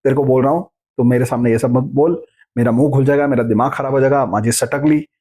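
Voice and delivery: a touch of hammed-up temper; mock irritable complaint. Shown as a demonstration. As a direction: rattle off the grumbles quickly like a short-tempered person. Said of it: "तो आप बोलेंगे कि".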